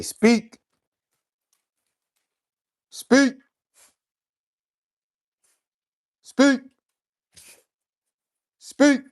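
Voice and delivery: high, loud one-word command to the dog. Real, not acted. Owner coaxing his dog Boss to bark, high and loud commands.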